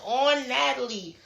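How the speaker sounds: high, drawn-out call, no real volume; mock yell. Retelling a castmate calling out Natalie, high mock yell. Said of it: "So Summer yelling".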